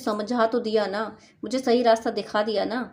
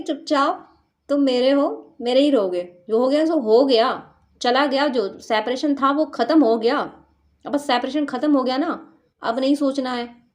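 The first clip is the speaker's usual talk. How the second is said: louder, firm possessive declaration; strong, bossy claim; 3 semitones higher, 4 dB louder than usual. Retold or imitated. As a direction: lay down the law to a lover, louder. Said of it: "इस तरीके की strong energy इनकी है".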